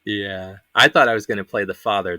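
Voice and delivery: usual speaking voice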